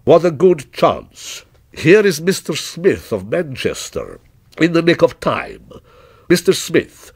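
mildly theatrical courtesy; proprietor, effusive. Acted. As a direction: welcome a handy witness with measured delight. Proprietor greets a new witness.

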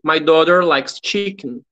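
slow, clear English; slow teacher read; slow model sentence. Shown as a demonstration. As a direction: model it slowly. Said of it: "melhorar a pronúncia".

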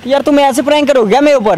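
crying complaint. Real, not acted. Boyfriend complains to his partner about the prank, crying. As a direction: protest the prank through tears. Upset after being pranked.

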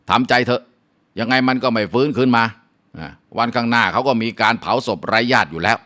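lightly voiced neighbor, half blunt, half comforting; consoling neighbor. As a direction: tell the grieving mother to let it go. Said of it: "เขาก็บอกว่า". (เพื่อนบ้านปลอบแม่ให้ทำใจ)

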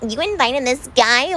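slow, mildly mocking imitation. Vlogger retells her friend being her, slow mocking voice. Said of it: "Shane in a mocking voice".

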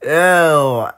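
loud, startled disgust; disgusted outburst. Acted. Reader recoiling from a prank message, disgusted outburst. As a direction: burst out, then a drawn-out loud ew.

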